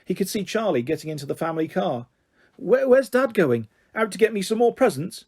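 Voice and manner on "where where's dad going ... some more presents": eager. A narrator's reading. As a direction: ask eagerly about more presents. Sam's hopeful eager question.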